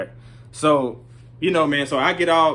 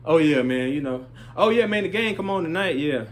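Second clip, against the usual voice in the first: fake casual small talk; 4 semitones higher than usual. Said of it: "I'm just acting like, you know, I done kinda forgot about it".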